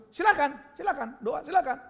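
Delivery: high, loud dismissive permission; acted-out impatient go-ahead; curt consent. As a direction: grudgingly wave the pastor on, loudly. Retelling the angry patient's grudging consent.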